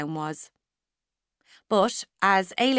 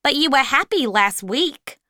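higher, louder puzzled; voiced supervisor; 6 semitones higher, 6 dB louder than usual. A narrator's reading. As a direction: press her gently. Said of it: "Miss Fortini".

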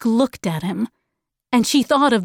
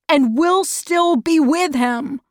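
lightly voiced boy, pitched higher; supportive boy; 5 semitones higher than usual. Calvin standing by Charles Wallace, higher supportive boy.

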